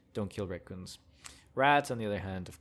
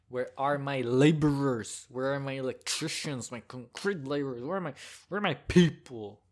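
hammed-up roll call, building louder and higher; mock rallying call; 3 semitones higher, 5 dB louder than usual. Vlogger summoning fellow laborers for Labor Day, playful rallying shout. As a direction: call out to an imagined crowd.

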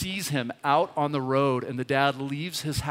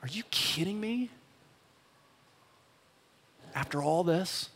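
furious; 4 semitones higher, 5 dB quieter than usual. Retold or imitated. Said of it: "is furious".

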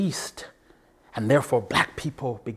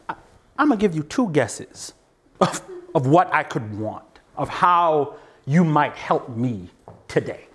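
inner angry retort; 3 semitones higher than usual. Retold or imitated. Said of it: "narrate the conversation I had in my head".

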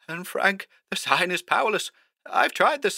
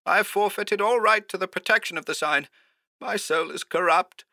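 very high, soft, strained voice; frightened high voice, losing hope; hoarse, despairing; 13 semitones higher, 4 dB quieter than usual. A narrator's reading. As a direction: confess helplessly in a thin, high pitch. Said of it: "more hoarsely this time".

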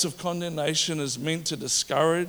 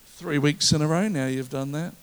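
mock nagging spouse; 3 semitones lower, 3 dB louder than usual. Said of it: "I can pull out the report card".

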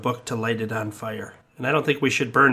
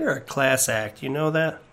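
sarcastic; 3 dB quieter than usual. Acted.

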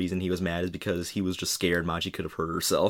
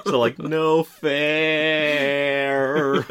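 laughing; 8 semitones higher, 5 dB louder, much slower than usual. Real, not acted. Laughing after Saki cries.

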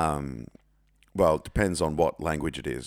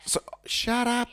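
mock stern; slower than usual. Real, not acted. Snapping at Siri interrupting.

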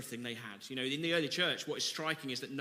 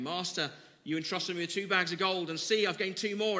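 eager proud servant; 4 semitones higher, 5 dB louder than usual. Acted. Second servant proudly reports.

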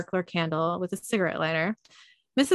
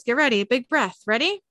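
higher, louder, rising to a lifted question; acted coaxing; 5 semitones higher, 4 dB louder than usual. Carer to resident before blowing candle, mildly excited coaxing. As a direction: lightly play someone cueing a big breath.

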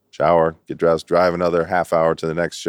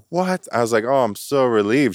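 high, laughing astonishment; comic at finding only his wife there, high and laughing; retold disbelief; 8 semitones higher than usual. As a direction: squeak out the surprise. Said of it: "I'm like".

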